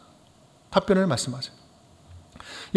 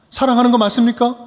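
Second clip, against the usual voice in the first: same challenge, more formal, 거 stressed; challenging question; 4 semitones higher than usual. Retold or imitated. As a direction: repeat the accusation formally, leaning on 거. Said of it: "이렇게 따지는 거예요". (따지듯 다시 묻는 목소리)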